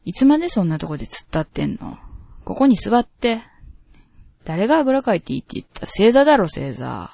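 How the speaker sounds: a hint of a bossy Kansai mistress giving orders; sadistic dominatrix. Host reading a listener's requested S-role lines, lightly domineering. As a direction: order him to kneel, mildly domineering. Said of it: "今日はS状鶴子でよろしく".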